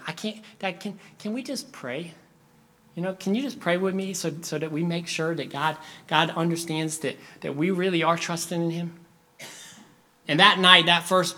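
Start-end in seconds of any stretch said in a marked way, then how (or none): 0.1-9.0 a hint of a fretting child; anxious little boy. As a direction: softly beg Dad to pray. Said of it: "panicked the whole night".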